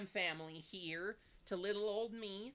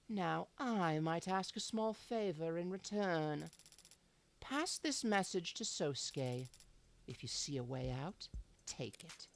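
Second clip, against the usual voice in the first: cool mob boss voice; 3 semitones lower, 4 dB quieter than usual. Acted. Mob boss and narration reading.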